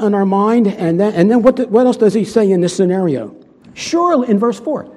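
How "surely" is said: mock tempter voice; serpent's sly surely. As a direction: tease it out slyly. Quoting the serpent.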